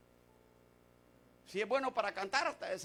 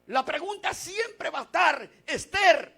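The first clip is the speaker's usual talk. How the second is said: raised preacher's delivery, pitch lifted; forceful preaching; 5 semitones higher, 10 dB louder than usual. Real, not acted. Preacher turns congregation to the book of Esther, forceful preaching. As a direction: declare it firmly to the congregation.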